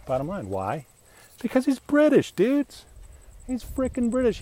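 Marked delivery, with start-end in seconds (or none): 1.4-4.4 high, loud, worked-up outburst; exasperated shout about the British; loud rant. Real, not acted. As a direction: yell it like the punchline of a rant.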